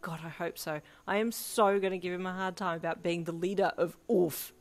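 gleeful. A narrator's reading. Gleeful teasing after cackling.

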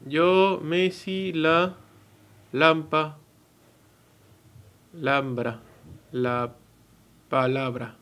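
halting, syllable by syllable, groping toward "palabra"; reading a puzzle aloud, guessing each sound; sounding out the letters. Shown as a demonstration. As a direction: piece "Yo, Messi, la, lampa, lambra, la palabra" together word by word. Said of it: "¿Ustedes qué leen acá?".

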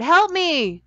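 high, loud, drawn-out cry; yelling for help. A narrator's reading. Delia yells to Jared as the earth crumbles. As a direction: call desperately across a gap. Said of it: "she yelled to Jared".

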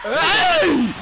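very high-pitched yell; shouting. Real, not acted. Fan yelling at the game, high piercing shout. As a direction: holler it at the court.

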